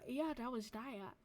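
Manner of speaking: words stretched by a yawn. Real, not acted. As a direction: say it through a yawn. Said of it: "Oh my God, I'm yawning".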